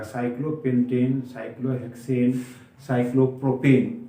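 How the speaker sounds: साइक्लोपेंटेन, साइक्लोहेक्सेन, साइक्लोप्रोपेन each ending in long "en"; -ane endings. Shown as a demonstration. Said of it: "उसमें एन शब्द आ जाएगा".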